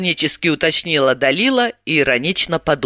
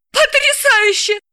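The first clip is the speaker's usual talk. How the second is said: genuine admiration. Acted. Galina admiring that Dalila remembers, high delighted voice. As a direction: marvel at her. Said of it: "Искренне восхитилась Галина".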